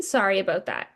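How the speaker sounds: incredulous echo. Retold or imitated. Patient echoing the clinic's apology back, incredulous. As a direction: repeat "sorry about that?" in disbelief with a falling scoff. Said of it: "And I'm like".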